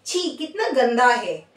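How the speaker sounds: slow, amused छी कितना गंदा है; mock disgust with a laugh; a teasing yuck. Shown as a demonstration. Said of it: "ओ, छी".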